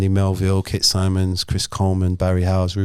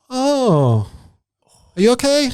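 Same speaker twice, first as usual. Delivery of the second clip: higher voice imitating a surprised Cockney cabbie; taxi driver; 14 semitones higher, slower than usual. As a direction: put on a high, friendly cab driver voice.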